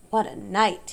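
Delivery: a hoarse, tired "What a night"; hoarse repeat. Acted. Rat repeating himself to the animals, hoarse. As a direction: say it again, worn out and rough. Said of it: "he repeated hoarsely".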